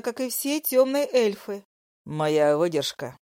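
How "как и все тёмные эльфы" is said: spiteful mistress. Acted. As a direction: sneer at the rival wife. Dragoness continues insult.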